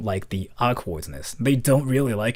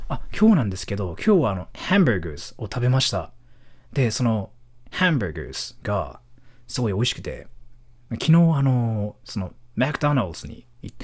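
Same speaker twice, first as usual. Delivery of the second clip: fast, fluent Japanese that turns English on McDonald's; foreigner's fluent Japanese; faster than usual. Shown as a demonstration. Showing viewers how fluent foreigners sound, English-accented loanwords. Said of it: "they go something like".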